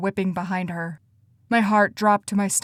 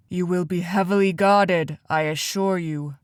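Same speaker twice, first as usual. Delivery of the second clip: tired. A narrator's reading. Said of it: "Hector said in a tired voice".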